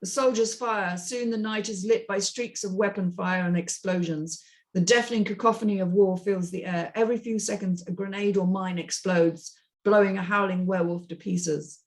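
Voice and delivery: steady screenplay read-through; plain action-line reading; script narration. A narrator's reading.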